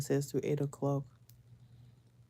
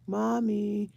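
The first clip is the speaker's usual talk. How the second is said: imitating kids tattling to mom, a little higher; lightly voiced child's complaint; complaining child; 4 semitones higher than usual. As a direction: report on a sibling like an aggrieved kid. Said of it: "second complaint".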